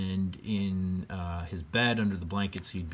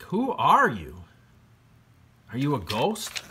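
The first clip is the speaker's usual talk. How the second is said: put-on wary boy George; 4 semitones higher, 4 dB louder than usual. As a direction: ask it carefully, half scared. George asks the unseen voice.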